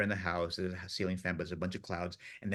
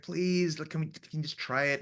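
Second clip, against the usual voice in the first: mock pleading; 7 semitones higher than usual. Tom begging the gaffer.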